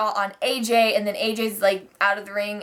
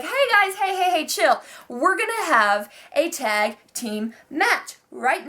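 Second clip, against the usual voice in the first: mock calming; 5 semitones higher, slower than usual. Shane calming the brawl.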